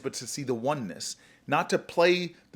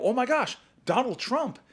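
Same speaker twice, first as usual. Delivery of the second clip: much higher, gushing oh my gosh; mock excitement; 10 semitones higher than usual. Senator hams up enthusiasm to the Trump-supporting mother, gushing. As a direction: play up delight to charm her.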